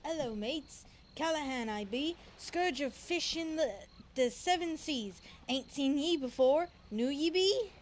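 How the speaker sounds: lightly voiced pirate brogue; a hint of an old sea dog greeting strangers; pirate accent. Tavern pirate greets the adventurers in a mild pirate accent. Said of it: "I'm trying to do it in the accent".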